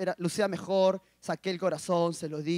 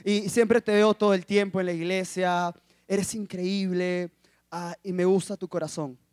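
gentle compliment; 4 semitones lower than usual. Retold or imitated. Voices the girl's kind speech.

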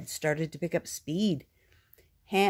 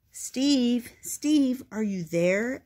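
calling out; 7 semitones higher, 5 dB louder, much slower than usual. A narrator's reading. Calling at Steve's door.

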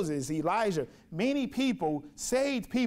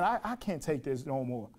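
exhausted despair; 5 semitones lower, 4 dB quieter than usual. Retold or imitated. Preacher voicing Elijah ready to quit, worn out. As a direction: lower and softer, worn out.

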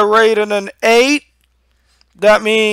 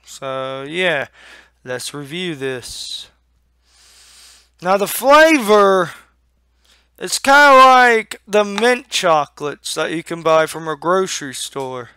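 talking with a lip full of dip; 2 semitones lower than usual. Real, not acted. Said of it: "Already got my lip packed".

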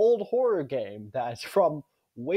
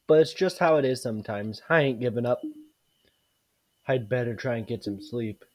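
softer, weary mother reading; tired mother; 4 semitones lower, 5 dB quieter than usual. Acted. Mother home late talking to herself, lightly voiced tired. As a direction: play a worn-out mom lightly, softly.

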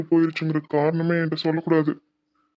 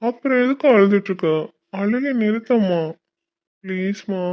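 distressed pleading; 4 semitones higher than usual. Acted. Son begging his crying mother to stop, distressed and pleading. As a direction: beg her to stop crying.

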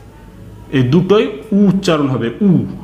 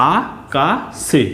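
syllable by syllable. Shown as a demonstration. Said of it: "তালবের স একা সে".

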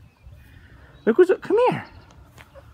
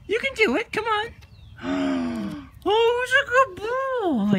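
high cooing praise; 4 semitones higher, slower than usual. Real, not acted. Praising pet on the stairs.

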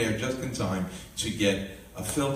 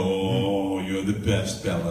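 retold doting praise; 4 semitones lower, slower than usual. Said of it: "Bella loves when she does something and I go".

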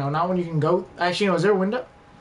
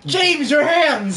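exasperated cry; 7 semitones higher, 4 dB louder, much slower than usual. Real, not acted. Friend cries out at James.

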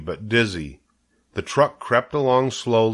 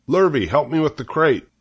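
calling for a hand, higher pitched; calling out an order; 7 semitones higher, 3 dB louder than usual. A narrator's reading. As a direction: call out to a helper. Farmer calling a helper to work.

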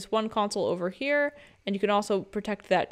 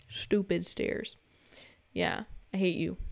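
muttered grudge; 2 semitones lower, 7 dB quieter than usual. Pretend. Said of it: "I'm talking to you".

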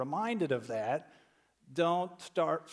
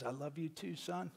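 soft, much quieter retold deathbed voice; dying father; 9 dB quieter than usual. Dad on his deathbed answering his son, softly. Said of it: "my dad was on his deathbed".

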